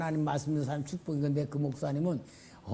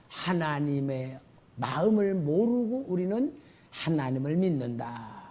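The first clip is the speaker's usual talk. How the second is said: ordinary delivery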